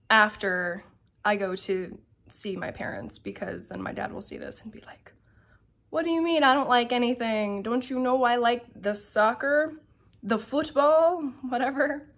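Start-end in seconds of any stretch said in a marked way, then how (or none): 5.9-12.1 lightly voiced dad, a touch of mock outrage; playfully offended father. Imitating her dad being teased about not liking anything. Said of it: "He doesn't really talk like that".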